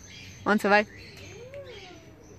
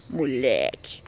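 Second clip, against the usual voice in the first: whispered tease; 8 semitones lower, slower than usual. Real, not acted. Fondly whispering moleque to her rascal pet. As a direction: breathe the word moleque as a fond secret.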